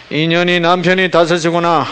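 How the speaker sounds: high, loud mock fortune-teller. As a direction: pronounce it like a fortune-teller reading someone's past. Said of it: "점쟁이한테 뭐라 그래요". (점쟁이 흉내 내며 높게)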